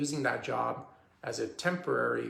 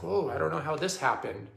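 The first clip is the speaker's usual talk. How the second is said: imitating someone feigning surprise; mock surprise; 3 semitones higher than usual. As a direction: lightly act taken aback, as if clueless. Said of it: "don't act, like, all surprised".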